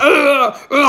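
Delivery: drawn-out high "uhh" of rage; imitated drooling, raging growl; mock wild roar. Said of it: "I started wilding".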